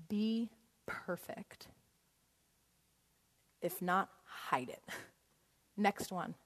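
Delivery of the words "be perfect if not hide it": hushed whisper of Be perfect; whispered lie. Pretend. Preacher voicing the lies we believe, whispered. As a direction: breathe the lie like a secret. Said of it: "Lies like".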